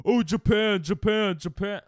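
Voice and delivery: loud, high-pitched mimicry of eager viewers; mock excited chat. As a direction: imitate an overexcited chat crowd chanting. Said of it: "everyone in chat to be like".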